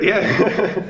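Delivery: usual speaking voice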